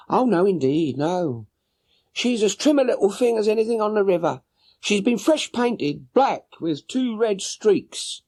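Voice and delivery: high voiced woman, a little anxious; worried boatman's wife. Boatman's wife telling Holmes her husband is gone, high anxious voice. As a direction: answer the gentleman with a high, fretful woman's voice.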